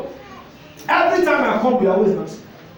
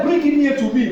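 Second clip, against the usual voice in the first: firm command; 4 semitones higher than usual. Retold or imitated. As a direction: press the demand home. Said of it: "And he said".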